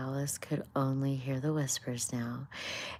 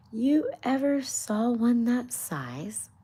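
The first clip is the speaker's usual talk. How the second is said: high, louder, slow scolding rabbit voice; hammed-up rabbit scolding; indignant rabbit; 9 semitones higher, 5 dB louder than usual. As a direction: scold like a fussy rabbit, dragging it out.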